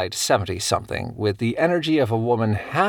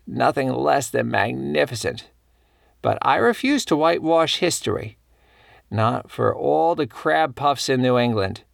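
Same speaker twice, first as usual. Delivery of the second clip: put-on a touch higher, rueful older lady standing on principle; lightly voiced elderly New Englander; 3 semitones higher than usual. Elderly colleague explains her lost invitation, regretful but firm. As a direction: lightly play a regretful but resolute old woman.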